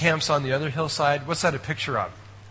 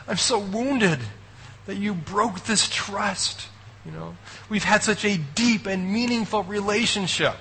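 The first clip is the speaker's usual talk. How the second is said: a lightly voiced Laban, pitched higher and hurt; wounded Laban; 5 semitones higher than usual. Preacher voicing Laban's hurt to the congregation, lightly higher and wounded. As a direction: play the injured, self-pitying father-in-law, mildly. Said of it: "I think Laban pictures himself as this man".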